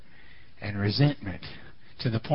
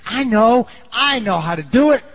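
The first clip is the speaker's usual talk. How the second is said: eager realization; 8 semitones higher, 6 dB louder than usual. Retold or imitated. Martha voiced deciding a plan.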